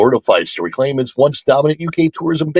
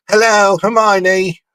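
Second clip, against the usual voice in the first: hammed-up British greeting, slow and higher; exaggerated mock-British, pitched up; bad British accent; 7 semitones higher, slower than usual. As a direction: put on a poor, drawn-out British accent. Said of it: "not great at a British accent".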